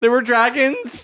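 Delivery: 1 mock epic narration. Mock-epic retelling continues.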